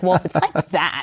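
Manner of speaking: words broken by a laugh. Real, not acted. Retelling reply to the neighbor, laughing mid-sentence. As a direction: laugh through the line.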